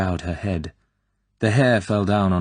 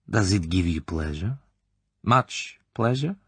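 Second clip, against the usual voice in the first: insinuating colonel; 3 semitones higher than usual. Acted. Klebb probing the girl's private life, slyly. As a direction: lean in and savour each question.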